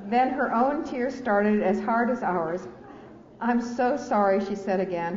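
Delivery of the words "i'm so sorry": higher, louder, breaking on the words; retold sob-broken sorry; sobbing apology. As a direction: let the sorry crack through sobs. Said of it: "her words breaking apart between the sobs".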